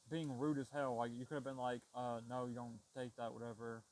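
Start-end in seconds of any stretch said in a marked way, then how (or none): 1.9-3.8 polite calm tone. Shown as a demonstration. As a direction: say it gently, no attitude. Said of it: "in a less aggressive tone".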